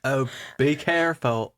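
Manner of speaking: mock English accent warning. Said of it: "English accent".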